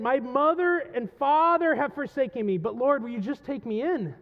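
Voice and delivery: impassioned psalm cry, settling at the end; anguished. Acted. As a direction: appeal to God, wounded. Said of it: "There's anguish".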